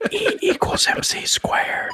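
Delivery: mock ASMR whisper, high, slow and secretive.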